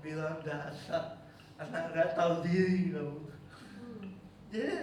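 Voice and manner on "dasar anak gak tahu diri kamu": exasperated mother. Retold or imitated. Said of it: "geleng-geleng kepala".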